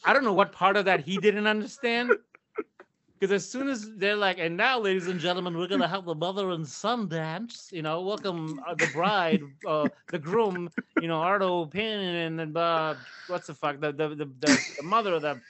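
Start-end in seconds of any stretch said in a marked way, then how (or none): 4.4-15.4 hammed-up DJ announcer accent, fumbling the names; mock DJ announcer accent. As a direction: imitate a wedding DJ accent, stalling with "uh". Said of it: "That's an awesome accent".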